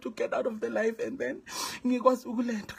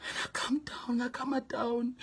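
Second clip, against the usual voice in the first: quieter, settling the voice; softer; 6 dB quieter than usual. Real, not acted. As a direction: bring it down gently. Calming herself.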